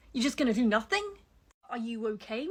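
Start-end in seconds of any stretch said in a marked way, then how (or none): 0.1-1.0 louder exasperated repeat. Real, not acted. Repeating it louder at complacent people, exasperated shout. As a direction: shout the question the second time, louder.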